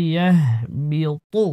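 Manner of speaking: ইয়াহবিতু slowly, with a thick emphatic t in তু; heavy ta. Shown as a demonstration. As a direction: make the final তু of ইয়াহবিতু heavy and full. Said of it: "তর উচ্চারণ মোটা".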